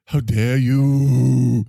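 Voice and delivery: very slow, stretched mock indignation; hammed-up scolding line; Greta Thunberg voice. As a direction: draw out every word in parody. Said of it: "It's Greta!".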